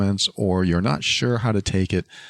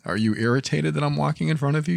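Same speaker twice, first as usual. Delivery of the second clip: confrontational question; 8 semitones higher than usual. Shown as a demonstration. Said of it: "That would usually lead to conflict".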